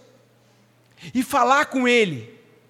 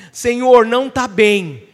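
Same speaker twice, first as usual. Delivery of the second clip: louder cry of Senhor, then slow; pleading prayer; 5 dB louder, slower than usual. Pretend. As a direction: call out to God, then slow down. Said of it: "chegar e falar assim". (clamor a Deus, mais alto e depois lento)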